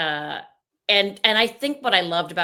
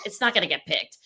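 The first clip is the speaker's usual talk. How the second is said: Antonia voice. Retold or imitated. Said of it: "just gonna do it like I do".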